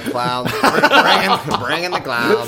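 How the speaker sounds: shouting. Retold or imitated. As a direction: call the clowns in, laughing. Wake-up clowns yell.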